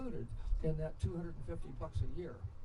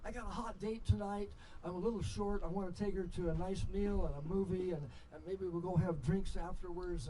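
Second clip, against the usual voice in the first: asking a roommate. Retold or imitated. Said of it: "to your roommate".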